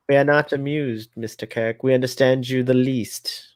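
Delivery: lightly put-on royal English voice; measured mock-regal British disapproval; Queen of England. Scolding Mister Kirk, lightly imitated queenly British voice. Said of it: "I was doing the Queen of England".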